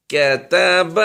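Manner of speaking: کتب with three short crisp vowels, no stretching; کتب short vowels, no drawl; correct short zabar. Shown as a demonstration. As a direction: model کتب the right way, short and clean. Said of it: "نہ ہی کھینچ کر پڑھنا ہے".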